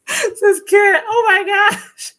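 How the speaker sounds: high, loud, laughing through the words; cracking up as the words come out. Real, not acted. Streamer laughing hard while reading Kat's comment aloud.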